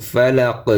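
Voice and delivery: ফালাক ending on a stopped q. Shown as a demonstration. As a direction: say ফালাক with no vowel after the q. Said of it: "জেরের উচ্চারণ হবে না অকফ করলে". (ফালাক-এর শেষে জের ছাড়া থামা)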